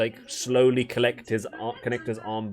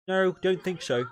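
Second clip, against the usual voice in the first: put-on drunk troll; 8 semitones higher than usual. Drunk troll Bob denies being drunk, high slur. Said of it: "But, uh".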